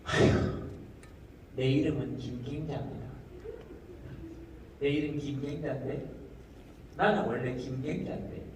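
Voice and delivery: lightly voiced old woman, soft and low; tearfully earnest Gyeongsang granny. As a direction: retell a wronged granny's grievance in Gyeongsang dialect. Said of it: "할머니 한 분이". (억울한 경상도 할머니 흉내)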